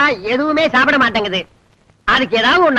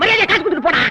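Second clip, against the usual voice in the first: higher, half-crying demand for payment; tearful demand; 4 semitones higher, faster than usual. Acted. Cheated shopkeeper demanding the money, near tears. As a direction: whimper it while insisting.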